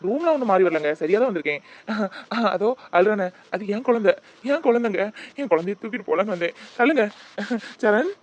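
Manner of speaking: loud, pushing to get past; father raising his voice at the mother. Acted. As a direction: demand to see the child. Father insists, pushes past.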